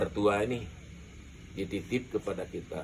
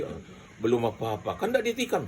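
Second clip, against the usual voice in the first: laughing tease; 2 semitones higher, faster than usual. Retold or imitated. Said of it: "saya bilang".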